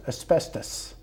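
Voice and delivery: asbestos breathed out in a whisper; whispered punchline asbestos; hushed reveal. Retold or imitated. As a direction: drop to a whisper on asbestos, like a dark secret. Punchline about filter material.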